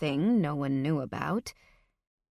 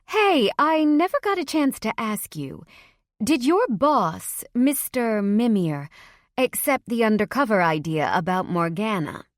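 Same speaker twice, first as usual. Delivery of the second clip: mom's voice; 3 semitones higher, 5 dB louder than usual. Acted. Mom voiced asking her son.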